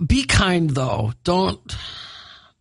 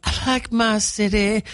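slow, drawn-out Minnesotan mimicry; mock Minnesota accent; 3 semitones higher than usual. Host parroting co-host's pride in the city, mock Minnesota accent. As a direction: stretch it out in mock local accent.

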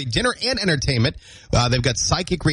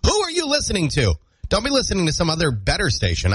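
high-pitched mock-jealous demand; mock indignation; 3 semitones higher than usual. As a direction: jump up high as if playfully accusing your wife. Mock jealousy at absent wife.

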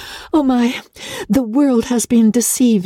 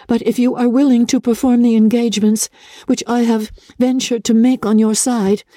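higher voice, reading out a letter; reading letter aloud; 4 semitones higher than usual. Acted. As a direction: read on from the letter, slightly pitched up. Elizabeth reads on from the letter.

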